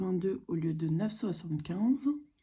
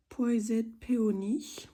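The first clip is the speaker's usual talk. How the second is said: English accent; much slower than usual. Real, not acted. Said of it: "Désolée pour mon accent anglais".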